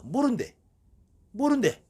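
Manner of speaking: mock shaman reply. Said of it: "아니, 누가 와서 그러십니까?".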